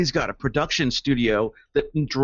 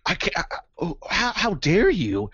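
mock outrage; 5 semitones higher than usual. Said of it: "the glasses come off and they go".

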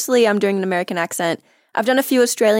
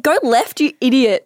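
mock scolding; 5 semitones higher, 3 dB louder than usual. Voicing own scolding navigation voice.

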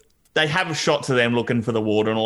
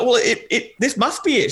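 giggling through a high mock quote; laughing imitation; 9 semitones higher than usual. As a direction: laugh while doing Amber. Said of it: "she's like".

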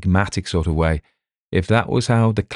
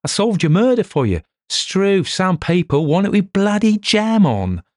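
higher and louder, indignant bluster; exasperated outburst; 13 semitones higher, 3 dB louder than usual. Acted. Boorish detective ranting at inspector, loud and much higher. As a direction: blow up at the fool who doesn't get it. Dover furious at slow inspector.

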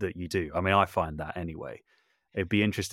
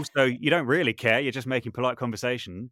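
awkward reply; 5 semitones higher, 4 dB louder than usual. Retold or imitated. Retold chat with hairdresser.

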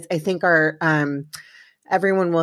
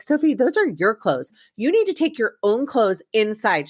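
higher-pitched, exasperated retort; retold exasperated mom; 4 semitones higher than usual. Mom to daughter about her clothes, retold with exasperation. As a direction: imitate yourself telling off your kid. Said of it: "I was like".

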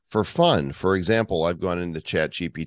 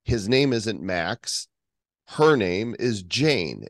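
slow dictation; slower than usual. Shown as a demonstration. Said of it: "I can say".

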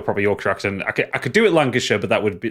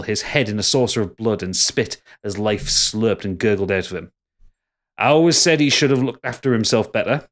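put-on Yorkshire accent. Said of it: "Your Yorkshire accent's terrible".

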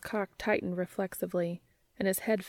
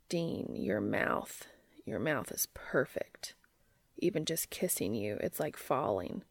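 awed whisper; 7 semitones lower, 6 dB quieter than usual. A narrator's reading. Intimate phone call, lovestruck confession.

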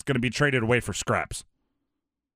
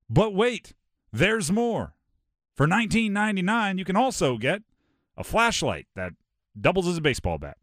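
Billy Mays; 3 semitones higher than usual. Retold or imitated. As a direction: hype it like a TV pitchman. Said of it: "the late, great Billy Mays, the infomercial guy".

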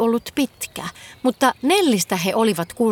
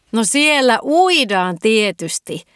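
put-on slow, louder girlish whoop; gleeful squeal; 2 semitones higher, 5 dB louder, slower than usual. A narrator's reading. Girl telling the fox about the beach, gleeful. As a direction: whoop it out like it's obvious. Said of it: "Nelli hihkui".

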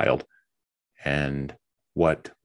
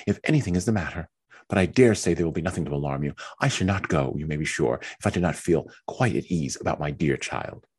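high, brightened voice of a wife glad to go out; eager Mary; 3 semitones higher than usual. Acted. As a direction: seize the idea with delight. Mary delighted to go out.

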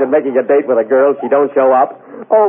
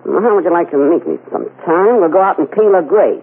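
Mae West voice; 4 semitones higher than usual. Pretend. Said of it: "make believe it's Mae West".

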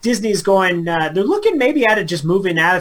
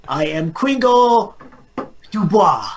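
Christmas character voice; 4 semitones higher than usual. Pretend.

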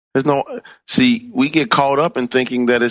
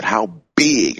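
BIG drawn out with weight; Reverend Coleman's emphasis. Retold or imitated. Preacher recalling how a mentor said it, stress on BIG. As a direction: lean hard and long on BIG. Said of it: "remember how she would say it".

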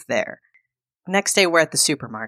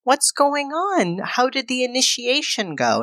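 gentle concern; 9 semitones higher than usual. Retold or imitated. Wife to her morose husband by the fire, high gentle worry. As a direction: coax him gently, high and unhurried. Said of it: "And she's like".

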